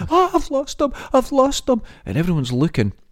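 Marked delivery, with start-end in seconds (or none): 0.1-1.8 acted-out screaming, much higher pitch. Telling a story from court, acting out a woman screaming. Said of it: "She started screaming".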